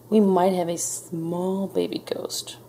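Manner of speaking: slow, whispered admission; cautious. A narrator's reading. Frizzle hoping to please a visitor, cautiously. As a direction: whisper it slowly, testing the water. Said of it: "Frizzle said cautiously".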